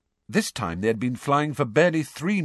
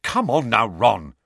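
cross; 5 dB louder than usual. Acted. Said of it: "said Angelina crossly".

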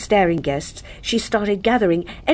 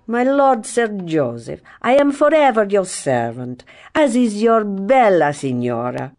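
oily Italian; 2 semitones higher than usual. Acted. Valzacchi's oily reply.

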